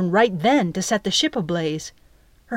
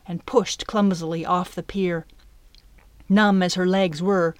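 usual speaking voice

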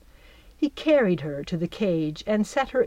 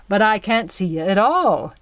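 gloating laugh; 5 dB louder than usual. Acted. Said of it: "he laughed".

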